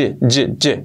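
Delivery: "y" as an English j sound; joined j sound. Shown as a demonstration. Teacher isolating the joined sound, j-like "y". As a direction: buzz each "y" like the j in jet. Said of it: "como si fuera un y".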